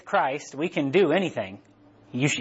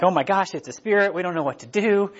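mock panic; 5 semitones higher than usual. Voices frightened disciples in the storm.

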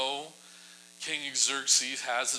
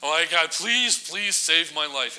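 higher, louder, slow desperate pleading; begging; 4 semitones higher, 6 dB louder, slower than usual. Retold or imitated. Haman begging Queen Esther for mercy, desperate slow plea. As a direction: beg for your life, drawn out. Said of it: "so he's begging".

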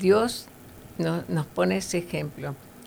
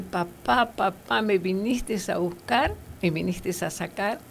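lightly voiced eager child; happy child; 3 semitones higher than usual. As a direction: call out to papa with sudden hope. Happy child sees father arrive.

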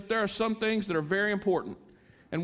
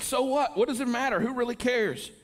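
with attitude; 4 semitones higher than usual. Retold or imitated. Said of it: "say with a little attitude".

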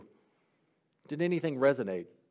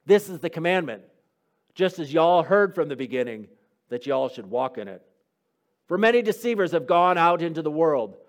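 scripture reading. Acted. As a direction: read the epistle aloud to the class, with weight. Reads the scripture letter aloud.

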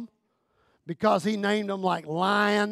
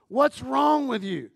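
a hint of a puzzled husband asking "What's wrong with you?"; 2 semitones higher than usual. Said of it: "he wants to know".

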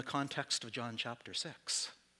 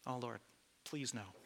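humble soft plea; 7 dB quieter than usual. Retold or imitated. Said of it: "I can see Jesus looking at me".

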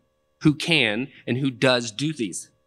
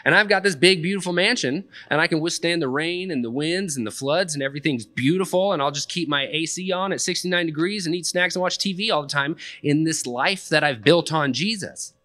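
higher, carefree run-on daydream; mock-confident inner monologue, pitched higher; naive believer's thoughts; 6 semitones higher than usual. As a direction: voice a believer's rosy assumptions, pitched up. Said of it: "We read that and we think".

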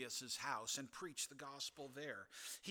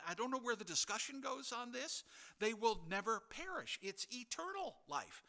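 higher and louder, preaching with conviction; rising fervor; 9 semitones higher, 5 dB louder than usual. Real, not acted. Preacher pressing the congregation, fervent and loud. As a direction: build the passion, press it home.

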